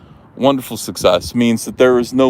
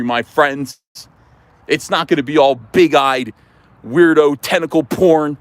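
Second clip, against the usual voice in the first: mock patriotic preaching; 3 semitones higher than usual. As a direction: preach it like a flag-waving politician. Patriotic rally speech.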